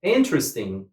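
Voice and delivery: "Interesting" stressed on IN; stress on first syllable. Shown as a demonstration. Teacher repeats the rule's example, stress on IN in "Interesting". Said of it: "put the stress on the first syllable".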